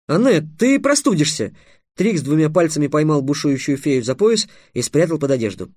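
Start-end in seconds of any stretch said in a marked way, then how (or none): 0.1-1.5 high-pitched anxious call; urgent interruption. Acted. Trix stopping his fairy's tirade, urgently. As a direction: cut in, voice lifted high.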